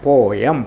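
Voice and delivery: പോയം split as po-yam; spelling pronunciation. Shown as a demonstration. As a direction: say പോയം with the E heard as a second syllable. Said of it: "പോയം എന്ന് വരും". (പോ-യം എന്ന് രണ്ട് അക്ഷരമായി ഉച്ചരിക്കുക)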